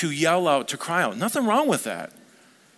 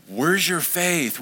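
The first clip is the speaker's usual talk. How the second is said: slow, drawn-out reproach, a touch irritated; mildly irritated; 3 semitones higher, much slower than usual. Acted. Jesus to the disciples as if fed up, mildly irritated. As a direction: stretch it out as a mild scolding. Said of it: "we think he's just irritated with them".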